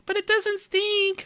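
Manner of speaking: high, slow mock whine of the wife; imitating wife. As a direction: stretch it out in a squeaky wife voice. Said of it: "That's what she always tells me".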